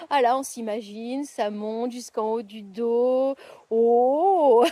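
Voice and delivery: mock massage chair. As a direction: voice shaken by a pretend massage. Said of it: "on va mettre en route notre fauteuil de massage".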